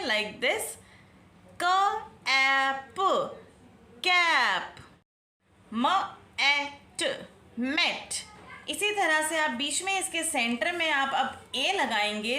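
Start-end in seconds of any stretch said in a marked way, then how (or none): 1.6-4.8 slow sounding out, then the blended word; letters sounded one by one, then कैब whole; phonics blending. Shown as a demonstration. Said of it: "इसी तरह से हम letter change कर सकते हैं". 5.7-8.1 slow sounding out, then the blended word; letters sounded one by one, then कैब whole; phonics blending. Shown as a demonstration. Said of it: "इसी तरह से हम लेटर चेंज कर सकते हैं".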